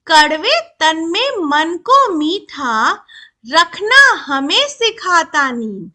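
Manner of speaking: slow, drawn-out verse reading; poem recitation. Shown as a demonstration. Teacher reads the neem poem to children, slow recitation. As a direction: stretch each word out in measured verse. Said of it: "चलो अब कविता पढ़ते हैं".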